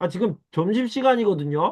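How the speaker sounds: irritated, rising ending. Demonstrating how an employee answers the boss, irritated retort with rising ending. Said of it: "끝을 올려서 말하면 화가 났거나 짜증이 났다는 느낌".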